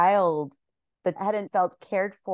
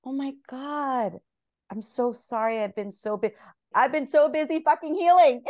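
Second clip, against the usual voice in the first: mock apology; 6 semitones higher than usual. Apologizing to inner child, hammed.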